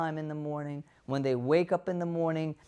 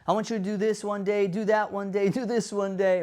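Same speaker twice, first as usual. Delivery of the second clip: bossy boss; 3 semitones higher, 4 dB louder than usual. Acted. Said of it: "your boss tells you".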